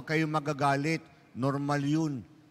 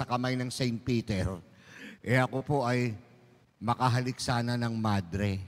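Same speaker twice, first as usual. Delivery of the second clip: sly driver; 4 semitones lower than usual. Acted. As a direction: sweet-talk the nun with fake sincerity. Driver sweet-talking the nun. (tusong drayber, mababa at nagmamakaawa)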